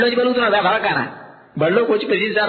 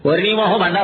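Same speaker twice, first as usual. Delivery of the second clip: usual speaking voice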